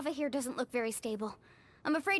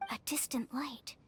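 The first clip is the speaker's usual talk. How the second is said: hushed wonder; 5 dB quieter than usual. Acted.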